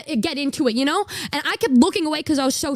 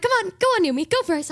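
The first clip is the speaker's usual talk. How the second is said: higher, eager urging; friends urging; 7 semitones higher, faster than usual. Retold or imitated. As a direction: egg her on like excited friends. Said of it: "So they're like".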